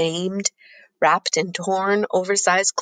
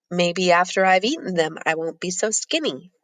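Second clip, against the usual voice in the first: joking. Acted. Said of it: "Sadu jokes easily".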